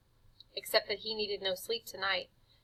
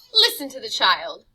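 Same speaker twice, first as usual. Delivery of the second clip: sly tempter; 12 dB louder than usual. Acted. Jive urging from the bushes.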